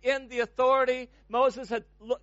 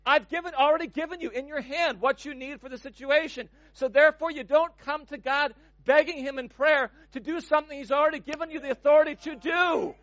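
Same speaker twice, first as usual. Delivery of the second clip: God rebuking; 4 semitones higher than usual. Acted. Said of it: "He says".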